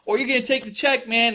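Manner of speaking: high, agitated scammer impression; mock freaking out. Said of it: "he's, like, all freaking out".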